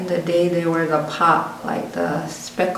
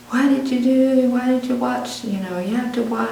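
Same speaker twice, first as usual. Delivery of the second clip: scolding mom; 6 semitones higher than usual. Retold or imitated. Mom scolding daughter over the burnt pot, higher mock scolding. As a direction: scold like an upset mother.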